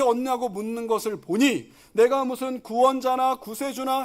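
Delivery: measured rebuke, building through the questions; mock scolding. Preacher voicing Jesus to the young ruler, mild scolding. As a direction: challenge him with pointed rhetorical questions, mildly scolding. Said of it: "이 청년을 지금 혼내고 있습니다".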